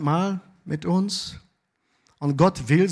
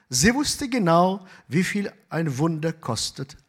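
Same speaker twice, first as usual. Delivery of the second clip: story narration. A narrator's reading. Pastor reading a miracle story to the congregation, gentle narration. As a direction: read the tale gently to the church.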